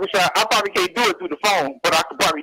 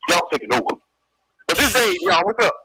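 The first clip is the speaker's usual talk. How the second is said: lightly lowered, gruff-toned comedian voice; Paul Mooney impression. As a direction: play the old-school comic hyping the host. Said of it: "I do impersonations of, uh, Paul Mooney".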